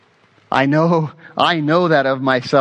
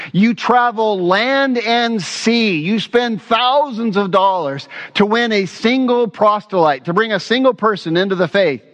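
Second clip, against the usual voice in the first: raised, slowed voice hurling woe at hypocrites; stern rebuke; 6 semitones higher than usual. Acted. Preacher voicing Jesus condemning the Pharisees, stern rebuke.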